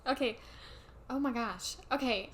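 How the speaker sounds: put-on a touch of Valley Girl; Valley Girl accent. Co-host teasing on a podcast, light Valley Girl accent. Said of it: "Not the Valley Girl accent".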